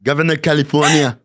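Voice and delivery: light mock Austrian accent like Arnold; a hint of Arnold Schwarzenegger Austrian. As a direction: say it the way an Austrian player would. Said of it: "not a thick an accent".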